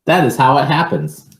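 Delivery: put-on lively read-aloud for children; picture book reading. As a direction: read it to a child, with a storyteller's lilt.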